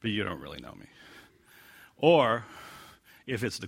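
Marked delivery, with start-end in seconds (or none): 0.0-0.9 knowing and a little rueful; wry underlying tone. Shown as a demonstration. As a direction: let the irony sink in. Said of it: "has the underlying tone".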